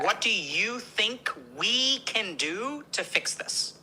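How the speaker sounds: slow, calm open question; calm inviting question. Shown as a demonstration. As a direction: gently hand the problem back. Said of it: "we're gonna say".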